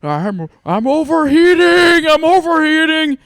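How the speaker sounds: hammed-up overheated man, laughing through it; mock overheated moan. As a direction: whine it out like you're melting.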